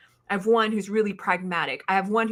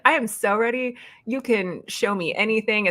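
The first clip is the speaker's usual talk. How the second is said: mock eager; 3 semitones higher than usual. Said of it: "I laugh at myself now because I was like".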